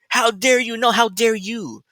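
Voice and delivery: high, slow sneering "how dare you"; a hammed-up mock tirade; mocking rant at Harris.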